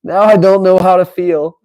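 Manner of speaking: words spoken through real laughter; laughing. Real, not acted. Streamer cracking up at agreeing with Trump, laughing. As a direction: laugh helplessly while you say it.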